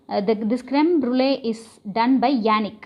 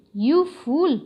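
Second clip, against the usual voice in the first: mild narrated shout; 4 semitones higher than usual. A narrator's reading. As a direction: lightly act out a scolding shout. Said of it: "she shouted".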